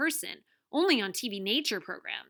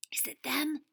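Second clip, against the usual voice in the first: higher, lightly anxious question; voiced stand-in for a worried whisper; 6 semitones higher than usual. A narrator's reading. Tuna asks Wahoo about the airboat, mildly anxious. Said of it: "she whispered anxiously".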